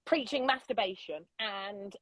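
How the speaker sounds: hushed whisper on the touchy word. Retold or imitated. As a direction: drop to a secret whisper. Telling campers her mission.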